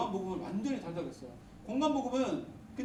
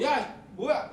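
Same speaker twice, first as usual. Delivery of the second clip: mock outburst; 2 semitones higher, 5 dB louder, much slower than usual. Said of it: "뭔가 하면 버럭하고".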